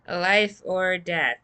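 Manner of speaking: hammy vow, each word drawn out; dramatic Potato line. Acted. Potato voicing the team's solemn vow, slow and loud. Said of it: "says Potato".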